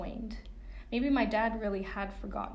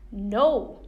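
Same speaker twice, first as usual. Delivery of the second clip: loud sharp no; teenage girl yelling no at her mother; refusing shout; 11 dB louder than usual. A narrator's reading.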